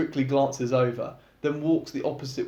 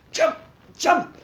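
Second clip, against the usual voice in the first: yelping; 7 dB louder than usual. A narrator's reading. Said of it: "Lux yelps out".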